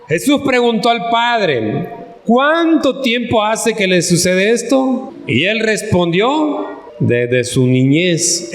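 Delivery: measured, projected Bible reading, slowing into the answer; scripture reading. Acted. Preacher reads Jesus questioning the father, solemn scripture reading. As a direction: read the verse out to a congregation, question lifted.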